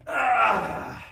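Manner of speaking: high, loud drawn-out "ah"; high cry. Real, not acted. Streamer alone on stream, a high falling cry. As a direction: cry out high, letting it fall away.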